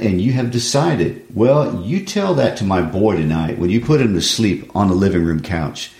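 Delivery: pleading frustrated son, lightly acted; reading Walter. Son pressing his mother about the money, frustrated plea. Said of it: "I'll read Walter".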